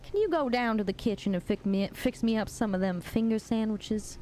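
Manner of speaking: lightly put-on Southern belle accent; a hint of Southern belle, asking a favor. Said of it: "Is that, like, Southern Belle voice?".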